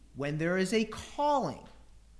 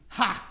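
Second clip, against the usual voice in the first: mock scoffing ha; 4 dB louder than usual. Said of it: "She laughs".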